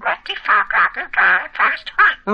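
budgie talking in Geordie; squawky little bird with a Geordie accent. Real, not acted. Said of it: "You're a Geordie".

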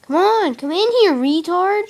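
loud high call. Real, not acted. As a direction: shout to lure it in. Calling the zombie over.

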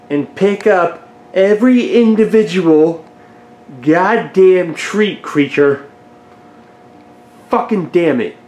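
slow, emphatic irritation; exasperated cursing. Real, not acted. Owner picking up every spilled treat, exasperated. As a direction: drag out each word in exasperation.

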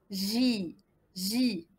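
"J" said like French "ji", held; syllable demonstration. Shown as a demonstration. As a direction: model "J" as soft zh plus long i. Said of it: "Comment je prononce cette syllabe?".

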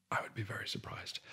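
unvoiced deadpan whisper; dry whisper. Real, not acted. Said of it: "dry repeat, whispered".

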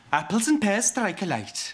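slow, deliberate Cockney demonstration; drawn-out Cockney showpiece; attempted Cockney accent. Shown as a demonstration. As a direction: show off a badly faked Cockney accent. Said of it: "you can't do a Cockney accent".

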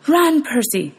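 mother's urgent high-pitched plea. Acted. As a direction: beg him to run. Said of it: "she told me".

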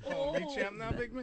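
high silly voice; squeaky voice. Pretend. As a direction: ask it in a squeaky voice. Squeaky mock voice.

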